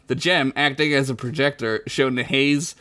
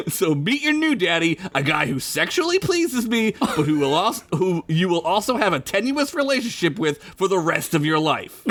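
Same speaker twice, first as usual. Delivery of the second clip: mama voice; 3 semitones higher than usual. Acted. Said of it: "it'll make your mama say".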